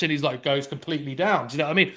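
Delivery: normal talking voice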